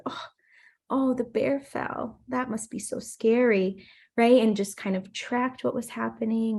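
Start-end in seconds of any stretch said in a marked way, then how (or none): 0.0-3.8 slow, sympathetic parent voice; imitated soothing mom; retold calm, nurturing. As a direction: gently reflect a toddler's fear. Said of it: "trying to be as calm and nurturing".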